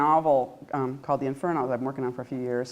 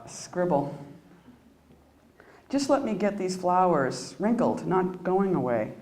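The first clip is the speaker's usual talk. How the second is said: poetry reading; slower than usual. Acted. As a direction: read it inward, letting lines fall away. Reads her poem aloud.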